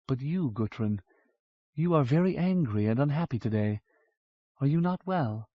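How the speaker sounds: a hint of tender worry; gentle concern. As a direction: ask her softly what is wrong. Vorsheva gently asks.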